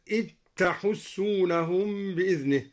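إذ تحسونهم with a doubled t; idgham dhal into ta. Shown as a demonstration. Teacher demonstrates the merger, إذ تحسونهم as "it-tahussunahum". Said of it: "وأدغم الذال في التاء".

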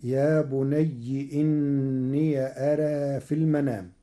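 يا بني with kasra, إني with open ي, أرى with taqlil; full phrase in Warsh reading. Shown as a demonstration. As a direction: read the whole line in Warsh style. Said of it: "فتصير الجملة كلها". (قراءة ورش للجملة كاملة)

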